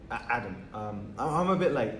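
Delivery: hesitant, with false starts; nervous stammer. Acted. Boy introducing himself to his crush, nervous stammer. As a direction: stumble over your own name. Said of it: "Adam is a stuttering mess".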